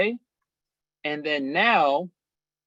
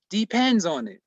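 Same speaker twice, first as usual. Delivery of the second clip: "Depends" pushed higher, then falling; "Depends" stressed as a repeated warning; emphatic repetition; 4 semitones higher than usual. Real, not acted. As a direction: drive "Depends" home firmly.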